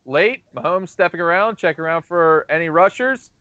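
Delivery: sportscaster calling the action; play-by-play commentary. Acted. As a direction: call the play like a broadcaster. Mock play-by-play of game.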